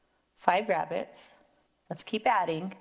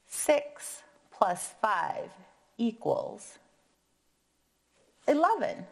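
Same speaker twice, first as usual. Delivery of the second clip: kindergarten teacher voice; 3 semitones higher, slower than usual. Acted. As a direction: draw it out, then reveal. Slow number sentence reveal.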